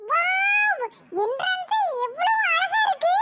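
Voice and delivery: high-pitched, drawn-out delight; excited wonder. Acted. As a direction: marvel at it, drawing the words out. Arriving at fair, admiring entrance.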